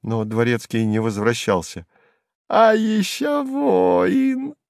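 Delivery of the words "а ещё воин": slow, high sneer; high drawn-out jeer; high mocking jester. A narrator's reading. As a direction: drag out the taunt. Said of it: "начал опять Сувенир".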